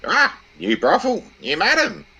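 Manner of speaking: high, loud, slow screech of a cheeky bird; squawking parrot. Acted. Parrot abusing its new owner, high squawking insult. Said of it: "the parrot looks around and arcs up with".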